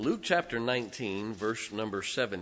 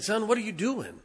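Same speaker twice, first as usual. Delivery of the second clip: put-on higher, scolding old pastor; imitating the pastor; 10 semitones higher, 3 dB louder than usual. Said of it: "He said".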